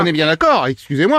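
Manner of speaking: lightly voiced low, official doctor; put-on doctor. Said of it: "docteur Martin, à l'appareil".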